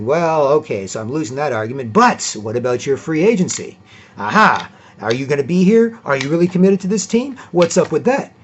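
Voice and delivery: change the subject with a gotcha; a hint of Draymond taunting; lightly voiced Draymond.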